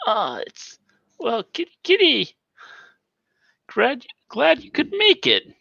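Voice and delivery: high, loud modulated voice; voice modulator. Acted. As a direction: speak through a voice changer. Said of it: "he's clearly has a voice modulator".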